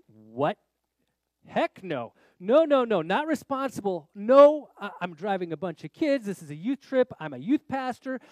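loud, emphatic protest, pitch jumping up; alarmed refusal. Retold or imitated. Youth pastor balking at God's order, alarmed. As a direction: refuse loudly, as if panicking at the order.

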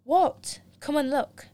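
high, loud startled cry; startled what. Acted. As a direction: jump at the word what. Sudden exclaim, excited boy.

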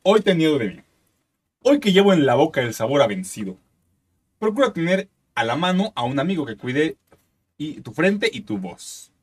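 slow, solemn reading of lyrics; dramatic lyric reading; poem recital. Acted. Reading trova lyrics aloud.

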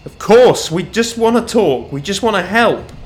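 high, loud, pleading cry. A narrator's reading. Watchman pleading with a fugitive on the edge, crying out. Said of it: "Nathan cried out".

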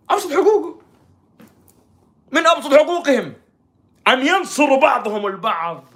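loud, high declaiming; hammed-up righteous outcry; mock impassioned appeal. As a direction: cry it out like a protest speech.

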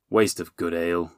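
understated grumble; grumbling. A narrator's reading. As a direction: grumble a little under the complaint. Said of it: "the friar grumbled".

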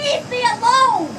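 slow, loud exasperated yell. Real, not acted. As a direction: shout it out, fed up. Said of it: "You're the only one yelling".

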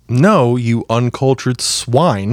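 slow, snooty put-down; mock haughty insult. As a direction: sneer it out slowly.

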